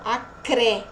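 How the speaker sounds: ACRÉ slow, with C and R both heard; cluster sounded. Shown as a demonstration. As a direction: draw out ACRÉ to show the cluster. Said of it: "Eu escuto o som do C e do R". (ACRÉ devagar, com C e R audíveis)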